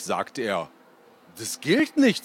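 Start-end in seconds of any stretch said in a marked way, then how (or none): 1.4-2.2 much higher, louder objection; a kid insisting on the rules; protesting boy. A narrator's reading. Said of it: "sagte ich". (Junge protestiert, viel höher und lauter)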